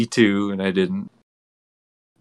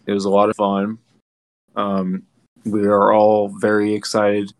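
mouth full. Real, not acted. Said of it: "sorry, I'm eating a Jolly Rancher, so I might sound a little weird".

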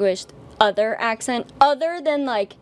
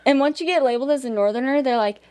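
normal talking voice

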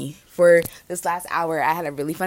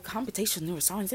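imagined listener reaction; 12 dB quieter, faster than usual. Acted. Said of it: "You're like".

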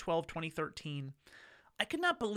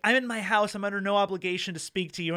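louder, fast and firm; firm refusal; 3 semitones higher, 6 dB louder than usual. Retold or imitated. Homeowner telling the solicitor off through the window, louder and firm. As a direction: shut him down flat.

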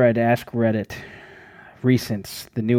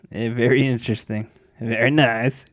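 put-on Kazakh accent.

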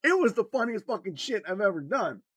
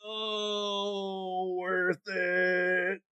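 satisfied; much slower than usual. Retold or imitated. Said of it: "And I'm like".

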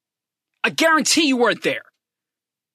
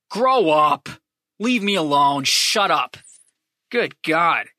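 snapping dismissal; 4 semitones lower, slower than usual. Real, not acted. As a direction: wave the fake fans away hard. Snapping at imagined fan.

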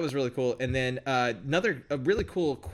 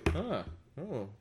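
bad acting; 3 semitones higher, 8 dB quieter than usual. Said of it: "just being like".

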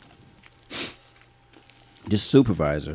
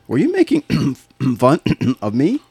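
throat-clearing boss. Retold or imitated. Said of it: "clears throat".

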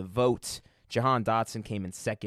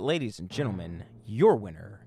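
booming pumped announcer; 4 dB louder than usual. Acted. Host announcing award winner.

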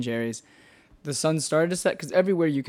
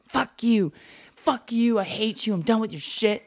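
mock angry woman; 7 semitones higher than usual. Acted quarrel of homeless couple.

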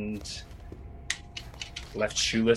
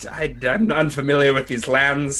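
mock innocent rogue; 3 semitones higher than usual. Thief stammering innocent excuses.

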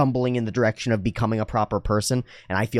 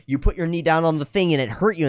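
raised, emphatic naming of a feeling; validating parent; 6 semitones higher than usual. Acted. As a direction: act a parent naming it for a child. Voicing parent echoing child.

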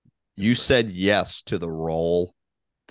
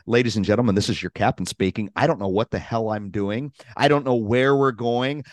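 airport announcement; 3 dB louder than usual. Retold or imitated. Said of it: "the M C of the squawk box and says".

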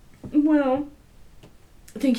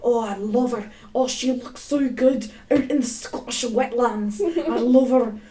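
mock Australian accent; 2 semitones higher, 4 dB louder than usual. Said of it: "How did I go from Australian to Scottish?".

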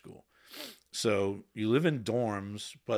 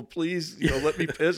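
loud desperate begging; pleading; 7 semitones higher, 6 dB louder than usual. Retold or imitated. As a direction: beg urgently to be let out. Begging to pee at boot camp.

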